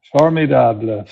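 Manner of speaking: put-on French word in a playful English accent. French host joking with online guests, English accent. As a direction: say it like an English speaker trying French. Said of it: "I say it in French with the English accent".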